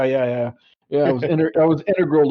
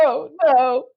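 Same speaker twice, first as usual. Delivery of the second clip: mock whimper; 12 semitones higher than usual. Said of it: "He's crying".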